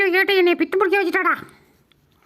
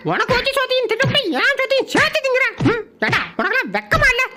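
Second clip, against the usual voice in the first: higher-pitched, worked-up telling-off; indignant scolding; 4 semitones higher than usual. Acted. Pet scolding another for stealing its food, indignant.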